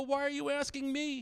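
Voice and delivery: high, slow mock protest; flustered dad. Dad deflects son's awkward question, acted fluster.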